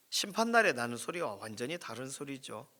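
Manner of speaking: ordinary talk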